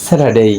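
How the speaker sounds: Saturday as a careful model, silent R; corrected pronunciation. Shown as a demonstration. Teacher modelling Saturday for learners, corrected pronunciation. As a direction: say Saturday with the R dropped. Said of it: "it will be".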